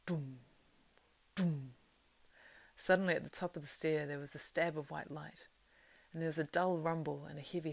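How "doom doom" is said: distant drum beats. A narrator's reading. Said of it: "drum beats throbbed and rolled".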